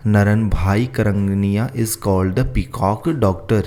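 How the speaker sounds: very slow, word by word for copying; slow dictation. Shown as a demonstration. Teacher dictating the question to students, slow and careful. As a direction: read it out slowly so students can write. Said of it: "तो यहाँ पे आप लिख लीजिए क्या".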